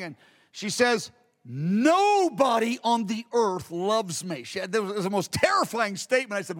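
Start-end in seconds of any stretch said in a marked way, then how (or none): 1.5-4.4 slow, hushed, tearful retelling; imitating a crying woman. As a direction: mildly echo her weeping, slowly. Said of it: "and she was crying".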